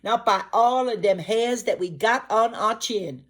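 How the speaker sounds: high loud pig yell; high, loud little pig refusing the gator; frightened pig shout. Acted. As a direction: shout defiance from behind the door. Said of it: "Them piggies shout".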